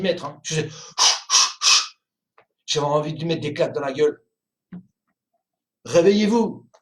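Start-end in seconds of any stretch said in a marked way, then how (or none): 5.8-6.7 shout. Retold or imitated. Urging passersby to wake up.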